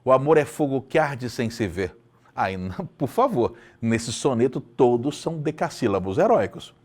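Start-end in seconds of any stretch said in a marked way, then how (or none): none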